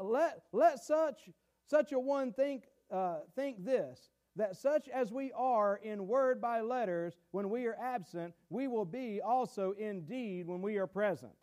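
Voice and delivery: slow, deliberate Bible reading; measured pulpit reading; scripture reading. Acted. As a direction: read the verse out with weight, phrase by phrase. Reads scripture aloud.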